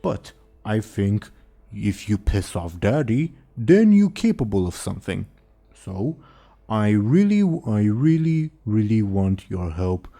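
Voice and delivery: dopey cartoon bellow. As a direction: boom it out like a simple ogre. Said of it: "the ogre says".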